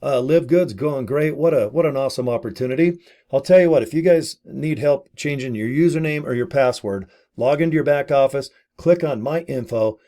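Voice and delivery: cheery upbeat host pitch; upbeat video host. Retold or imitated. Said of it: "just go".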